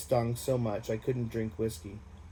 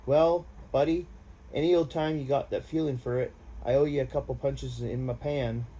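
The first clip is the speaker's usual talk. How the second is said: friendly buddy; 3 semitones higher than usual. Acted. Randy's grateful offer voiced.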